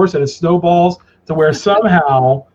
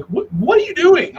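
wife quoted; 12 semitones higher than usual. Retold or imitated. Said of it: "my wife's like".

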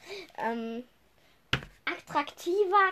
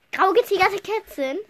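higher, disbelieving echo; incredulous repeat; 6 semitones higher, 4 dB louder than usual. Real, not acted. Wiederholt ungläubig, lauter. (ungläubig wiederholt)

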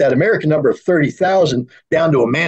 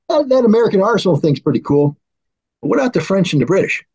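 raised pitch, mock-innocent query; feigned casual admiration; 4 semitones higher than usual. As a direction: play the Russians innocently asking. Retold Russians feign casual interest.

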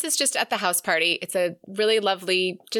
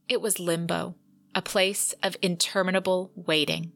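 measured dramatic narration; deliberate literary read-aloud. Acted. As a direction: read it like an audiobook, letting the phrases land. Reads a cinematic passage aloud.

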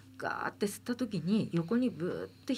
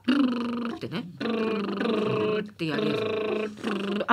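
buzzing lip trill; lip roll trill; faster than usual. Shown as a demonstration. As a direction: trill the lips, brrr.

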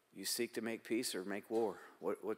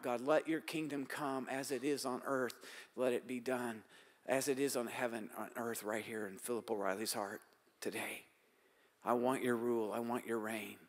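softer, devoted prayer voice; asking God's reign in his heart, quiet prayer; 3 dB quieter than usual. Acted.

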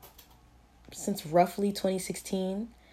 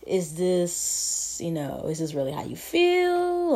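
mock shopper; slower than usual. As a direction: mimic the puzzled buyer asking.

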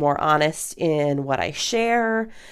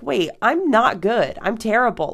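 lightly acted dawning dismay; sudden honest correction; 6 semitones higher than usual. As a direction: catch yourself and blurt the truth, slowing down. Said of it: "and then you're like".

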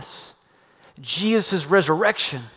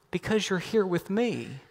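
much softer, quiet and wounded; soft hurt reply; 2 semitones higher, 9 dB quieter than usual. Retold or imitated. Girlfriend answering quietly, hurt by his complaint. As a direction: say it gently, hurt. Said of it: "looked at me and said".

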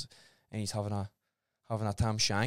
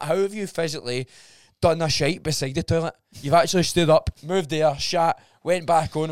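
incredulous rant; 4 semitones higher, 9 dB louder than usual. Retold or imitated. Mocking quote at toilet culprits.

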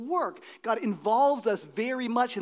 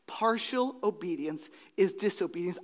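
whisper; 2 semitones lower, 5 dB quieter than usual. Real, not acted. Pastor drops voice for key line.

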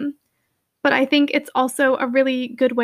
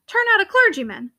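high, outraged disbelief; indignant; 6 semitones higher than usual. Acted. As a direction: protest in shocked outrage. Outraged clergyman protests.

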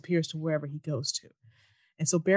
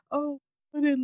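animated mockery; 8 semitones higher than usual. Real, not acted. Mocking the show's excuses, high animated disbelief. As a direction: throw up your hands in disbelief.

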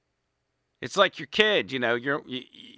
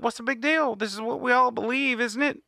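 higher, faux-naive shrug; mock innocent; 6 semitones higher than usual. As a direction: act baffled that anyone minds. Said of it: "they're like".

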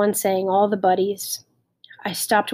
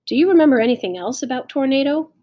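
eager prompt; 5 semitones higher, 5 dB louder, faster than usual. A narrator's reading. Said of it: "I prompted".

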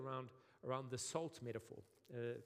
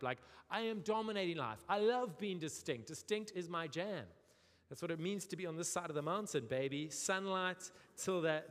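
boastful. Retold or imitated. Mocking Sea Point boastful resident.

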